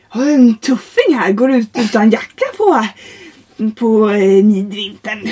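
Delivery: a hint of a hearty, loud examiner; blokey examiner. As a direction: boom it out like a back-slapping examiner. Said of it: "grabbigt tag".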